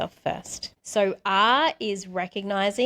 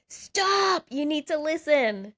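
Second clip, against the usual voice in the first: mock scream; 8 semitones higher, slower than usual. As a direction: voice your body's urgent cry for attention. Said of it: "it was screaming at me".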